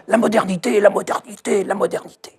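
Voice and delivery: mock excited chant of la modernité; mock cry. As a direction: cry out the slogan as if hopping on a chair. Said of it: "en criant".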